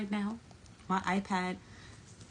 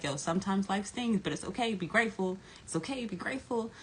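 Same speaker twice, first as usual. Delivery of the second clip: gentle self-reassurance. Retold or imitated. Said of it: "I was like".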